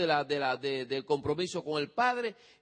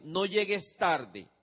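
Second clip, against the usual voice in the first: don't say it like this; much slower than usual. Shown as a demonstration. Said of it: "nunca le diga al adolescente".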